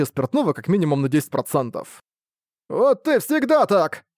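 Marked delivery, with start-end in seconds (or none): 2.7-4.0 put-on high drunken outburst; exclaiming. A narrator's reading. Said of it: "воскликнул он". (пьяный возглас, высоко и громко)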